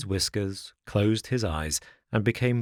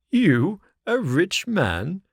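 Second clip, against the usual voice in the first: louder, high, slow scoffing fox; mocking disbelief; 9 semitones higher, 6 dB louder, slower than usual. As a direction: scoff at the little puppet's boast. Fox mocks Pinocchio's claim.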